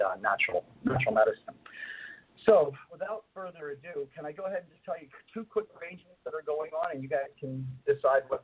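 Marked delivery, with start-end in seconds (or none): 2.4-8.4 distant, tube-like line; through a tube. Real, not acted. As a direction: sounds far off down a long tube. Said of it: "It sounds like you're on a long tube".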